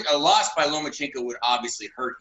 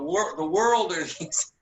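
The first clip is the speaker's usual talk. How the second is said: holding back laughter; 2 semitones higher than usual. Real, not acted. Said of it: "I'm trying to keep a straight face".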